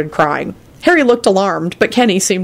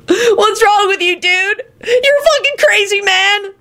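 a sulky dude yelling the same phrase; high exasperated slacker voice; high whiny stoner, irritated. Acted. Kenny voice.

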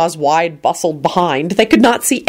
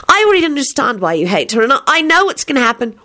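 put-on higher girl voice, weary; young girl voice; 7 semitones higher than usual. A narrator's reading. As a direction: replay the girl's worn complaint. Rosie repeating her lines.

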